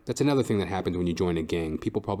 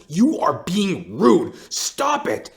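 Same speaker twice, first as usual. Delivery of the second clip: higher, slow stern scolding; scolding mom; 8 semitones higher, 6 dB louder, much slower than usual. Retold or imitated. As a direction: play the mom scolding her daughter. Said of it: "And Mom's like".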